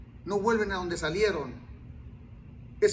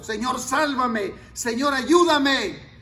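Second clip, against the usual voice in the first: slow, louder pleading cry; desperate cry; 2 semitones higher, 6 dB louder, slower than usual. Retold or imitated. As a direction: beg as if drowning. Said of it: "un grito desesperado". (grito desesperado, lento y fuerte)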